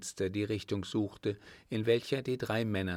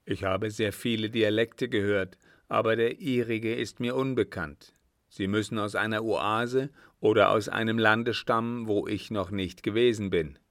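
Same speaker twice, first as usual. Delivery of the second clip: a somewhat firm, louder elder figure; hint of a weighty desert chief; lightly voiced sheik; 4 dB louder than usual. Sheik telling his son of unknown dialects, firm.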